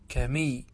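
كمي with one short m; lightened mim. Shown as a demonstration. Teacher repeating takhfif for students, كمي with single m. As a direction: keep the m in كمي brief and single. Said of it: "بالتخفيف".

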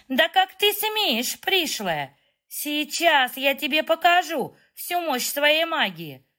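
high, slow, offended threat; haughty outrage. A narrator's reading. Kitty threatening the stranger with magic, high indignant fury. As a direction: rise up high in wounded pride.

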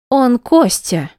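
loud, slow, high shout; screaming. A narrator's reading. Wife screaming at the woman in the cell. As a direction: yell it to shut her up. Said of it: "закричала она".

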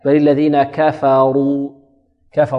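"كفروا" بكاف مرققة مفتوحة وراء مفخمة; رتل ببطء، وكاف "كفروا" بين التفخيم والإمالة; وسط بلا إمالة. Shown as a demonstration. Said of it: "وسط". (رقق كاف "كفروا" دون إمالة)

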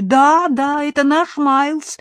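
high, loud burst of hope; excited exclamation. A narrator's reading. Jane hearing her dog described, excited cry. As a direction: cry out in eager recognition. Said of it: "воскликнула Джейн".

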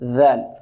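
low, deliberate ذال with interdental dh; dhal, tongue tip out. Shown as a demonstration. Teacher shows pupils the tongue tip, careful dhal. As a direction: say ذال with the tongue tip showing between the teeth. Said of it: "يبرز طرف اللسان".

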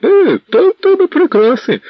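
very high, loud ironic cry; bitter exclaim. Acted. Tall lad showing the shackles, loud ironic cry. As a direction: shout it out at the chains. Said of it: "заволав парубок".

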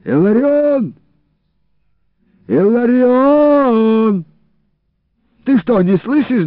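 high, loud drawn-out call. A narrator's reading. Iliko calling to Ilarion from outside the gate, loud and high. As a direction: call across the yard through cupped hands. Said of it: "сложил руки рупором и закричал".

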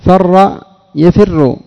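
فر يفر spoken very slowly, syllable by syllable; slow example. Shown as a demonstration. Teacher to students, slowly dictating the verb pairs. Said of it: "يفعل".

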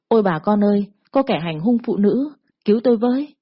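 put-on a girl shouting to the neighbours for help, voice climbing; crying for help. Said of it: "rồi la lên". (kêu cứu, giọng vút lên)

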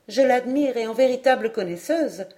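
a hint of a keen, admiring girl; young woman, enthusiastic. Narrator voices the young woman. (jeune fille enthousiaste, voix plus haute)

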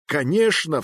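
sharp high exclamation; exasperated cry. A narrator's reading. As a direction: snap it out in exasperation. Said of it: "вскрикнул я".

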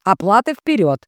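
loud, demanding innkeeper; sharp warning. A narrator's reading. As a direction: bark the demand. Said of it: "предупреждает хозяин трактира".

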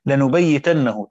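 لنبيتنه drawn out slowly, every syllable spelled out; slow Quranic reading of لنبيتنه; careful recitation. Shown as a demonstration. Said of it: "ضابطة هنا على قراءة".

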